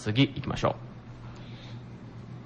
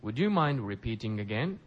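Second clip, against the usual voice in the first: slow, careful teacher model line; slow model read; 6 dB quieter, slower than usual. Shown as a demonstration. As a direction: say it slowly for learners to repeat. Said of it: "皆さんも一緒にリピートしてください".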